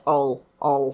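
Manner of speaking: all as a rounded "oh" sound with a dark l ending; final l swallowed into the vowel on all. Shown as a demonstration. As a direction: round off all without a Japanese ru. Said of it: "Lで終わる単語".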